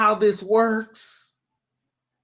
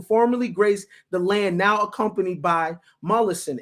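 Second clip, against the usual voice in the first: article read. Acted. Reading a news story to viewers, steady report voice.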